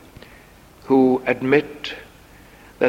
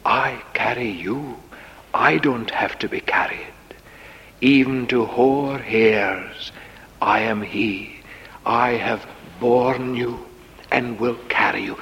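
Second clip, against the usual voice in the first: softer, steady assurance; gentle, sincere divine comfort; reassuring; 2 semitones lower, 4 dB quieter than usual. Acted. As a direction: promise quietly to carry them. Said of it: "says the Lord".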